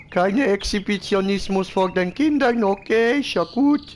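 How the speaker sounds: high, silly voice of a man in underwear; squeaky Sim voice. Pretend. Streamer voicing his Sim greeting the neighbours, high and silly. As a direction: ham up a goofy neighbour calling hallo.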